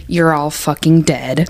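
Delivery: low, slow, deadly threat; low menacing threat. Retold or imitated. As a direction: growl it low like a killer. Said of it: "and he goes".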